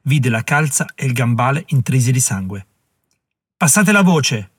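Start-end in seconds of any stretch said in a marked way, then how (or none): 3.6-4.5 ordine. Acted. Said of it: "ordinò Herkimer".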